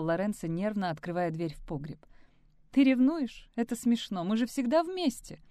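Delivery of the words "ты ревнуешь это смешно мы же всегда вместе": higher, louder mocking smirk. A narrator's reading. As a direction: laugh off his jealousy. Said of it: "усмехнулась Полина". (с усмешкой, насмешливо)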